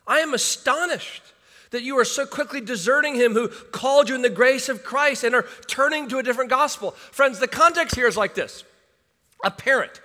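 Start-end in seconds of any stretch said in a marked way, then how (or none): 0.1-6.9 rising, raised voice of shock; Paul's astonishment. Retold or imitated. Paul rebuking the Galatians, astonished and raised. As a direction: let the shock climb higher. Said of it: "He is shocked".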